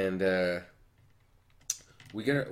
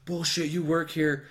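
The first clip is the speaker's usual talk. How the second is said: higher, drawn-out scornful retort; mock angry customer; 8 semitones higher, 4 dB louder, slower than usual. Angry lady disputes customer's denial, mock indignant. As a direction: imitate a disbelieving irate customer, slowly.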